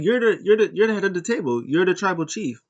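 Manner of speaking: imitating Heyman pumping up Roman; Paul Heyman impression. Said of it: "he's like".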